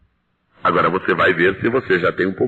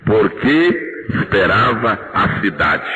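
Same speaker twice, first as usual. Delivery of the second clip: slow, drawn-out unison recitation; slow reading together; much slower than usual. Real, not acted. Preacher and church read the verse together slowly. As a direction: stretch out "esperava".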